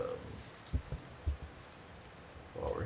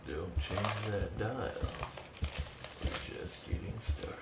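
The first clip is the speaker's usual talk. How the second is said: announcer voice; 4 dB quieter, slower than usual. Pretend. Mock broadcaster sign-off to viewers.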